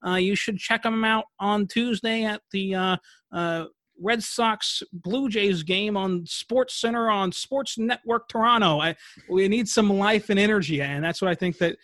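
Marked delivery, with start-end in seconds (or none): 0.1-8.8 slow, higher, nasal-free nerdy stats guy; nerd voice. Acted. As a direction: play a dull stat-reading nerd. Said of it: "with that nerd voice".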